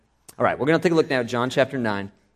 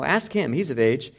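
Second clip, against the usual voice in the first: voiced parents pushing the question away, higher; parents deflecting; 4 semitones higher than usual. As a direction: hand the question off, a little defensive.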